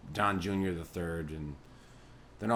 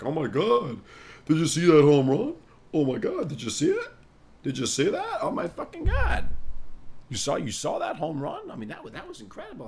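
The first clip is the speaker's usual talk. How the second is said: high, loud gushing; chatting up girls at the bar, hyped; overexcited; 8 semitones higher, 7 dB louder than usual. Retold or imitated. Acting excited small talk.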